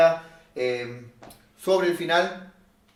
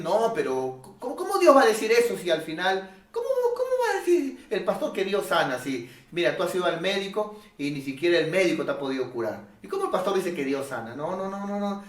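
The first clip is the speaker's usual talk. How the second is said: doubting inner voice; 3 semitones higher, faster than usual. Retold or imitated. Logic scoffing at the pastor, mock-incredulous. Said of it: "la lógica te va a decir".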